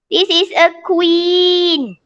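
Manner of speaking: slow, each word clear; slow model sentence. Shown as a demonstration. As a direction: model it slowly for the pupil. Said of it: "teacher models sentence slowly". (ayat contoh dibaca perlahan)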